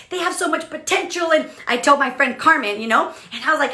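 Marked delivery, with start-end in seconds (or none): 0.1-1.3 high-pitched, frustrated protest; upset. Retold or imitated. Leader venting about her team's wasted potential, upset. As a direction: plead their case in exasperation. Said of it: "I get all upset and I'm like".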